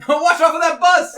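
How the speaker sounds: playful shouted heads-up; mock warning shout. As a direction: call out a pretend warning. Jokingly acts out a shouted warning.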